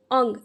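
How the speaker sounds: o-n-g as one glued sound; "ong" read together. Shown as a demonstration. Teacher showing glued sounds, "ong" read together. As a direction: glue the letters into "ong". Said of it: "इनको हम एक साथ ही पढ़ेंगे".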